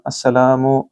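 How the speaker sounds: अस्सलामु with the ला stretched; long l vowel. Shown as a demonstration. Teacher isolating the word, long vowel. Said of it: "लाम को फिर लंबा करें".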